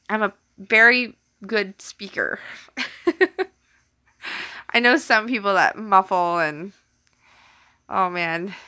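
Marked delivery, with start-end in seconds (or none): 0.1-2.4 mock-careful diction, "very" set apart by pauses; careful enunciation. Shown as a demonstration. Streamer defending her speech to teasers, careful enunciation. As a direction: enunciate "very good speaker" word by word. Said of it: "I enunciate really good".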